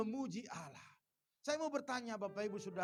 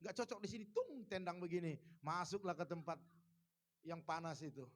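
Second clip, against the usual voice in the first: a hint of God's voice, lower and softer; voicing God mildly; 4 semitones lower, 6 dB quieter than usual. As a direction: lightly play God judging the quarrelers. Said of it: "Tuhan lihat".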